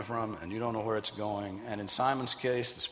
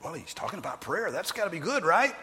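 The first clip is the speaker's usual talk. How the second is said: mock naive hope; 6 semitones higher than usual. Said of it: "foolish Christians would take that".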